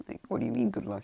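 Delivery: high-pitched startled question; imitated indignant squeak; mock disbelief. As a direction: act out a baffled protest, voice jumping up. Acting out her startled objection.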